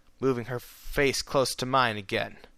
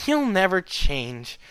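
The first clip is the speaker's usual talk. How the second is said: warm mutter; 7 semitones higher, 3 dB louder, slower than usual. A narrator's reading. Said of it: "she muttered warmly".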